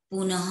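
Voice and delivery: पुनः ending in an audible "ha"; visarga as H. Shown as a demonstration. Teacher shows class the visarga, पुनः ending in "ha". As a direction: sound out the breath "h" at the end of पुनः. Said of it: "तो ह की ध्वनि".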